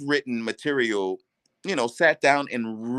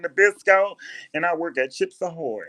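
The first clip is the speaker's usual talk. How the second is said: put-on proud girlfriend voice; 7 semitones higher than usual. Girlfriend naming her two jobs, high voice. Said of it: "she got a heavy voice".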